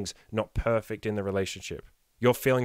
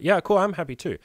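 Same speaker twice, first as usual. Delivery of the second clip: upbeat pretend reply; 8 semitones higher, 6 dB louder than usual. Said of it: "And you'll be like".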